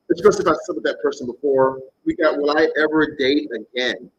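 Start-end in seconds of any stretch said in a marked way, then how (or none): 2.4-4.1 slow, mock-desperate question; lightly mocked desperation, drawn out. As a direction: read it out as a mildly pitiful plea. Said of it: "That sounds so fucking desperate".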